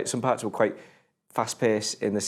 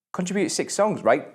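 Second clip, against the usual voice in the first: amazed; 8 semitones higher than usual. Real, not acted. Still amazed by the soundtrack.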